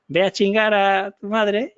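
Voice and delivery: mock-furious retort; angry user. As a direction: spit it out like a fed-up user. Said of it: "se enfadó y dijo".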